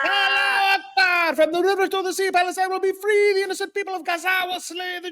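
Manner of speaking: hammed-up zealot rant. Actor gives in to the director, bellowing a mock fanatic's rant. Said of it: "Now do the accent".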